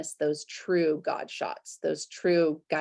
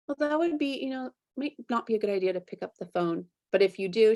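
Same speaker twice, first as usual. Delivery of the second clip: grandma voice; 4 semitones higher, faster than usual. Retold or imitated. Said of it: "grandma's voice".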